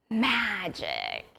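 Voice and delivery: drawn-out, whispery stage magician reveal; hammed-up hushed wonder; mock magical exclamation. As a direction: breathe it out slowly like a magic spell. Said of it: "a little bit too excited".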